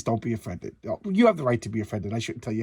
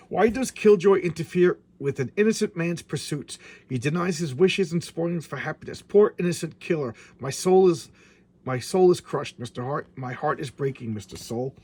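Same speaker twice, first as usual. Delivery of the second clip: mock lament. Voicing villain's mock lament.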